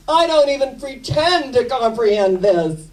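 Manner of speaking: grinning high bemused quip; hammed-up Snoopy. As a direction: say it again bigger, with a grin. Repeats Snoopy's line.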